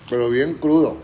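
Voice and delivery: groggy, worn-out hungover voice. Real, not acted. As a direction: sound rough and hungover. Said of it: "estoy bien crudo".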